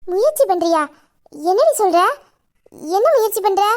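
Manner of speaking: taken aback, pitch jumping early in each question; puzzled questioning. Acted. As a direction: question her in surprise. Sister questions the odd answer. (வியப்புடன் கேள்வி)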